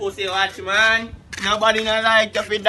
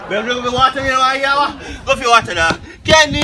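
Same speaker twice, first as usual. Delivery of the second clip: shouting; 4 semitones higher, 4 dB louder than usual. Acted. Shouting at someone over water.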